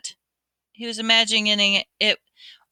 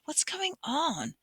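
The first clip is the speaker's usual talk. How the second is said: puzzled; 9 semitones higher, 9 dB quieter, slower than usual. A narrator's reading. Ginny arriving, puzzled.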